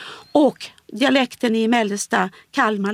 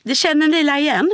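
Gothenburg la; 7 semitones higher, 4 dB louder than usual. Shown as a demonstration. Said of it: "man har även det här la".

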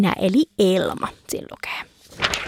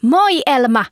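calling back; 4 semitones higher, 3 dB louder, slower than usual. Acted. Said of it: "huusi Kukka takaisin".

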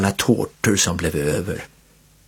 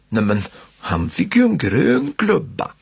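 growling; 6 semitones higher than usual. A narrator's reading. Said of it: "morrar Martin".

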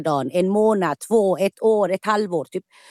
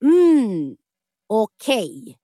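sudden realisation; 3 semitones higher, much slower than usual. Retold or imitated. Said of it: "det var då jag bara".

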